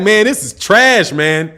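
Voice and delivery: slowly, laughing through "trash"; laughing mock quote. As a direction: chuckle as you drag out "this is trash". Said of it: "you're like".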